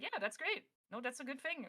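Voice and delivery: lightly voiced pleased crowd; imitating approving fans. Players react to the studio replacing AI voices, retold approval.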